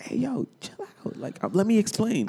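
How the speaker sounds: high, hushed pleading comic voice; Kevin Hart. Retold or imitated. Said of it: "I did the Kevin Hart".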